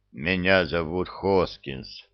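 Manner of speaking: hollow voice from inside a barrel; slow, boomy, like inside a metal tank. Acted. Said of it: "произнёс он голосом, как из бочки".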